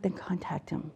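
very soft, near-whispered nudge; quietly prompt, as retold advice; retold gentle prompting. Counsellor voices own soft reply.

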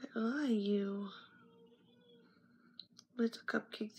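soft unvoiced whisper; whispered question. Real, not acted. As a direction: breathe it out without voice. Whispered search for figure.

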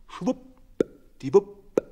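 high, slow, drawn-out schwuppdiwupp; playful high schwuppdiwupp; sing-song schwuppdiwupp. A narrator's reading. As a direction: swoop the word up high and stretch it. Hens hoisted up on line.

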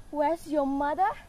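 plain-voiced echo of the nurse's question, lightly mocking. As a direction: throw the nurse's words back at her. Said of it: "How oddly thou replies".

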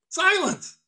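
high, sudden order for silence; sharp command. Acted. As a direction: cut the cook off imperiously. Mate silences the grumbling cook.

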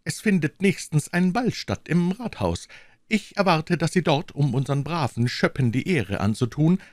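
lightly voiced king, stately and cold; a hint of royal command; the king hands down his answer with majesty; majestic king. A narrator's reading. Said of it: "sprach er mit Majestät".

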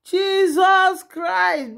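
high, drawn-out cry of shock; shocked exclamation. Real, not acted. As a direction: let Jesus Christ burst out in disbelief. Shocked by the shouting.

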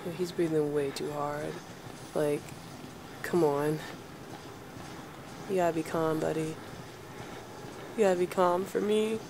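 low hushed voice, keeping quiet. Real, not acted. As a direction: murmur low so nothing hears. Hiding from monster, hushing himself.

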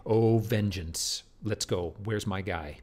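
slow, eager call to revenge; Laertes eager for revenge. Retold or imitated. Teacher voicing Laertes, who wants to fight. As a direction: say it like a man ready to act. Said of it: "Laertes would say".

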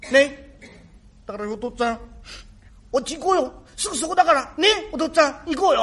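put-on small boy pleading with his long-lost father; boy's voice. Son telling father about his wound, in a light boy's voice. Rakugo performer voicing the boy.

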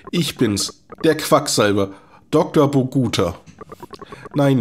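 a hint of a chatty, nervous old doctor; lightly voiced quack doctor. Doktor Boguta chatting to the miner John, lightly voiced quack. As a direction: talk like a fussy little quack, rambling on.

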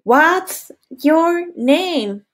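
put-on a girl at school asks your name; girl asking. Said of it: "una niña ... te pregunta".

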